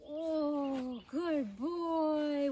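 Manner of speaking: loud, high, drawn-out praise; gushing praise. Real, not acted. Rider rewarding her horse with scratches, gushing praise. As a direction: gush over the horse, stretching the words.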